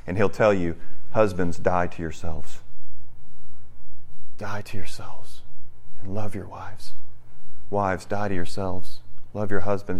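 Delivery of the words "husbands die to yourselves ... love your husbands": gentle counsel. Acted. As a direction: lower the voice into tender admonition. Voices Jesus counselling husbands and wives.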